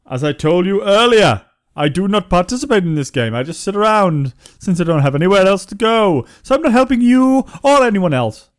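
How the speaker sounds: lightly voiced sour old townsman; grumpy NPC. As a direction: play the fed-up NPC who's done with his role.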